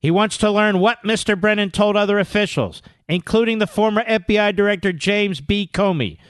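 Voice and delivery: measured, projected article reading; news read. Real, not acted. Radio host reading breaking story aloud, emphatic news read. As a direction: read it out point by point.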